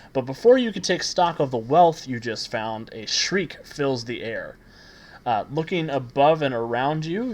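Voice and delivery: dramatic scene-setting with stressed key words; game master narration. Acted. Game master revealing mummified baboons to the players, dramatic narration. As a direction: build up to the monster reveal.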